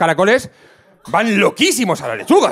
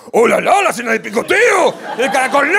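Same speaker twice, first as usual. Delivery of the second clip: put-on French accent; 6 semitones higher than usual. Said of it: "Ponemos a un francés delante de la lechuga".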